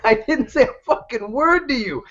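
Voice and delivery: a hammed-up frightened passerby; mock panic. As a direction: plead your innocence in a hurry. Scared greeter backpedals from Tyson.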